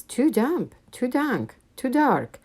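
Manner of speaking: high little mouse voice, fussing; a tiny mouse complaining about the cave; squeaky mouse voice. A narrator's reading. Mouse squeaking about the damp cave, high. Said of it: "Mouse squeaks".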